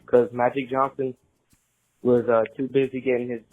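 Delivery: recorded phone message; leaving a voicemail. Real, not acted. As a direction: voicemail played over the air. Caller's voicemail played on show.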